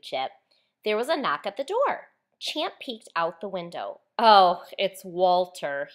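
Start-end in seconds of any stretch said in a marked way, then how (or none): 4.2-5.9 slow, weary sigh of disappointment. A narrator's reading. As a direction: sigh it out, unhappy to see him. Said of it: "he sighed".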